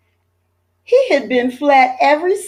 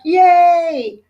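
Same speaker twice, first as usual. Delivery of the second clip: high, loud happy cheer; cheering yay; 9 semitones higher, 5 dB louder than usual. A narrator's reading. Mother cheering her sons' poster win, bright yay. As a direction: clap and cheer for the boys. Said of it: "Missus Lambchop clapped".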